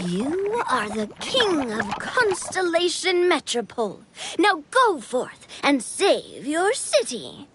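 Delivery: slow, grand proclamation; mysterious voice. Acted. King recalls the voice that crowned him, slow and grand. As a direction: proclaim it slowly, like a voice from beyond. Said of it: "I heard a voice say to me".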